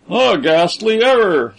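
a restrained angry outburst. A narrator's reading. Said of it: "said Braddock Washington angrily".

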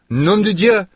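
high startled exclamation; shocked cry. Acted. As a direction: gasp it out in shock. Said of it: "She cried out".

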